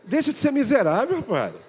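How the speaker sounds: high, loud rebuke; preacher yelling at a stingy husband; scolding shout. Real, not acted. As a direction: shout him down for being stingy.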